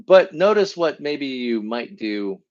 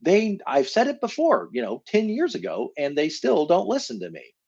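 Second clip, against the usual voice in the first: resentful inner voice; 8 semitones higher than usual. Retold or imitated. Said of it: "you might think to yourself".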